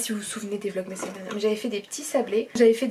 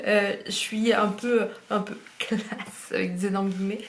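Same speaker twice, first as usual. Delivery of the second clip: posh voice. Pretend. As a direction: put on a fake classy voice. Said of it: "je parle comme ça".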